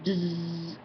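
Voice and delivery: sustained buzzing noise; mouth-made buzz; imitated phone buzz. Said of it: "all of a sudden you hear".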